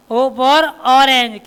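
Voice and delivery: slow phonics demo. Shown as a demonstration. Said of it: "phonics teacher models phrase".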